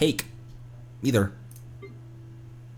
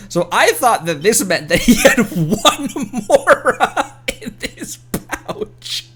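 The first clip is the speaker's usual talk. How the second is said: high, slow words squeezed through laughter; laughing; 7 semitones higher, slower than usual. Real, not acted. Streamer explaining her silly misreading, laughing. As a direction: laugh at her own mistake while talking.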